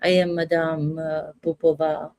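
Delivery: lightly put-on Russian accent. Shown as a demonstration. Acting commentator showing off an accent, Russian accent. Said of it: "I can do a Russian accent".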